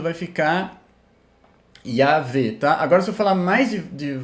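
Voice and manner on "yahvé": Yahvé in two quick syllables, ya-VÉ. Shown as a demonstration. Teacher showing the fast form of the divine name. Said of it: "se eu falar mais rápido".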